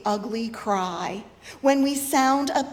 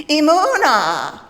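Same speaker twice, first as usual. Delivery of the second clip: loud braying cry, much louder; braying shout; 4 semitones higher, 10 dB louder than usual. Shown as a demonstration. Preacher demonstrating to congregation, a loud braying Emunah. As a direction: bray the word Emunah like a donkey calling its mother. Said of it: "you need to say it like braying".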